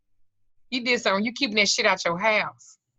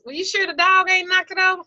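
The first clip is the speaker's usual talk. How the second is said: doubtful high question; 9 semitones higher than usual. Retold or imitated. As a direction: raise an eyebrow. Mock dialogue with client.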